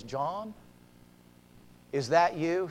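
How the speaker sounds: very soft, tentative question; hushed disbelief. Acted. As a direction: ask as if hardly daring to believe. Wife softly recognizes her husband.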